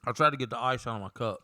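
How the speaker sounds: talking around ice; speaking with ice in the mouth. Real, not acted. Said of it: "ice in my mouth".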